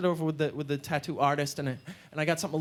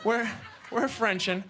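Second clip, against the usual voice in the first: ordinary delivery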